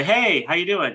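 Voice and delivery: swooping, over-friendly hey; put-on buddy-buddy hello; mock chummy greeting. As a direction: open like a pal about to ask for money. Voices fake-friendly Facebook pitch caller.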